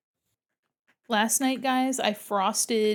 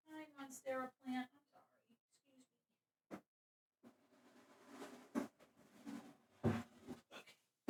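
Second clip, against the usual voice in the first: much softer, breathy apology to a plant; hushed playful apology to a houseplant; soft aside; 3 semitones higher, 18 dB quieter, much slower than usual. Real, not acted. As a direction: murmur sweetly to the plant.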